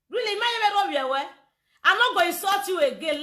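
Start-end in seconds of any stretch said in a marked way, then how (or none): 1.8-3.2 mocking repeat. Shown as a demonstration. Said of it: "lie, lie".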